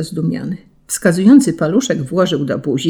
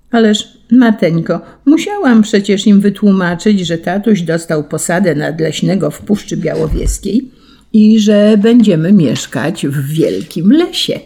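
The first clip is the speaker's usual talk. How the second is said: put-on eager little girl; 2 semitones higher, 3 dB louder than usual. Daughter explains eagerly.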